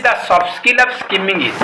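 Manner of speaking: very slow, spaced-out reading of the question. Shown as a demonstration. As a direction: dictate each word slowly. Reading the exam question aloud. (ଧୀରେ ଧୀରେ ପ୍ରଶ୍ନ ପଢ଼ିବା)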